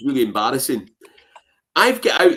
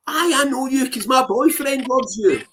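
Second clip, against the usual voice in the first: higher, put-on barmaid voice; 9 semitones higher than usual. Barmaid telling him her boyfriend's a fan, higher put-on voice. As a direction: play the girl recognising him. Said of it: "She says".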